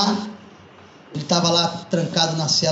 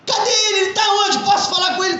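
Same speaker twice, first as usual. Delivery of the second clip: anxious urgent asking; 12 semitones higher, faster than usual. Acted. Mother demands to see son.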